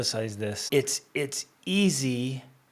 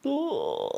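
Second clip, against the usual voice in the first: imitated remorseful "oh"; 13 semitones higher than usual. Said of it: "I was like".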